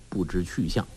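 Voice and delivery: ordinary delivery, nothing marked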